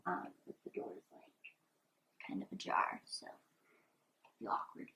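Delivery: hushed whisper so no one hears; whisper, the door is ajar. Real, not acted. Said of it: "turned around to be sure that, like, nobody heard".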